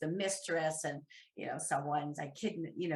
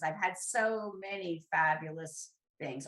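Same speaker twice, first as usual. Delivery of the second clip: ordinary talk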